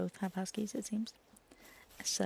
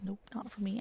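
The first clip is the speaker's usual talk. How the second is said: mock recoil; 7 dB quieter than usual. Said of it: "I'm just like".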